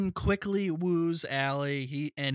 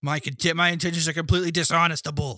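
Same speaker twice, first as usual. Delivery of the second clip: mock Boston tough guy; 4 semitones higher, 5 dB louder, faster than usual. Mock dim tough guy mangling line.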